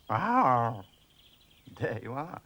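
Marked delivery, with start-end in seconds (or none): 0.1-0.8 a somewhat louder roar; stronger roar. Shown as a demonstration. Parsley tries his roar again, a little louder. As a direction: push the roar a bit harder. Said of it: "fierce roar".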